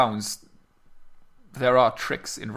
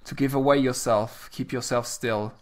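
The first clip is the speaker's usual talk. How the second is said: measured poetry reading; reciting a sonnet. Acted. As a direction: read the verse with care. Reads Sonnet sixteen aloud.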